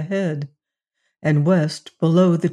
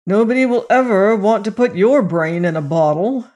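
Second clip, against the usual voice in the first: scowling; 4 semitones higher, 6 dB louder than usual. A narrator's reading. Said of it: "predicted the scowling Syme".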